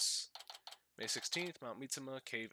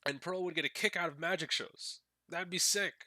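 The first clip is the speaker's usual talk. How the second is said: higher, louder fan gushing; excited; 4 semitones higher, 5 dB louder than usual. Real, not acted. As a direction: get hyped about it. Gushing about favorite characters.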